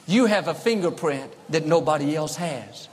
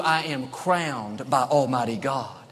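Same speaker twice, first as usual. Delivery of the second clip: slow calm affirmation; 4 semitones lower than usual. Retold or imitated.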